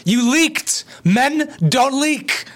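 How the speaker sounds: can't believe what he's hearing; high, drawn-out scoffing disbelief; incredulous mockery. Real, not acted. Incredulous about the leaking excuse.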